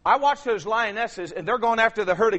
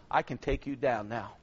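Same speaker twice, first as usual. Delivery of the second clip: devil's threat; 7 semitones lower, 8 dB quieter than usual. Retold or imitated.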